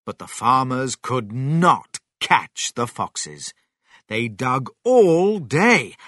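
ordinary delivery, nothing marked

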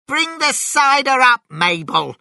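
very high, loud bellow down the stairs; shouted. A narrator's reading. Missus Bean shouts down to Mabel, loud order. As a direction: bark the order from upstairs. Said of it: "shouted Missus Bean".

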